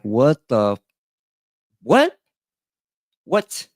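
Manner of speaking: a stunned double take; shocked. Retold or imitated. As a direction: jump way up in pitch, stunned. Shocked reaction to news.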